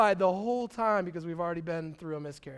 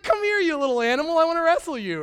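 playful roughhouse call; 7 semitones higher, 7 dB louder, faster than usual. Retold or imitated.

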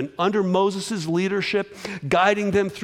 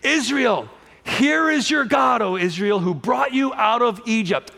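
proclaiming Aaron; 4 semitones higher than usual. Retold or imitated. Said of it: "He says".

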